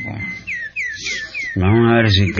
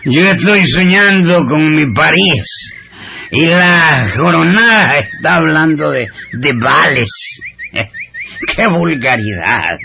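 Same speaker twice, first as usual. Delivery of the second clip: haughty, scornful aristocratic sneer; imperious plummy grande dame; 4 semitones higher than usual. Acted. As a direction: look down your nose at vulgarity. Snobbish scorn for vulgar things.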